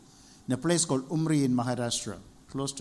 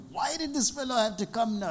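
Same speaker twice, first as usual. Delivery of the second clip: irritated grumble; 8 semitones higher than usual. Retold or imitated. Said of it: "So I'm getting angry".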